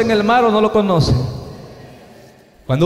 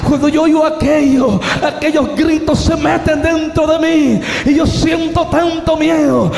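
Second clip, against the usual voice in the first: loud, higher preaching climax; preaching at full force; 7 semitones higher, 4 dB louder than usual. Acted. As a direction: cry it out from the pulpit. Preacher's testimony peak. (predicación a todo pulmón)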